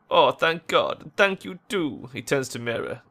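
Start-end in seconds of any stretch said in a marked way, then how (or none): 0.1-2.1 higher-pitched relieved thanks; relieved gratitude. Acted. Relieved character thanking their helper.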